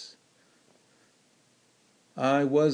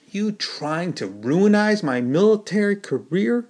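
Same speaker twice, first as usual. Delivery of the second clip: higher-pitched, hopping-mad yell; angry shout; 7 semitones higher than usual. A narrator's reading. Soldier shouting at the man he bumped, angry yell. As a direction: shout it, fuming. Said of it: "he shouted".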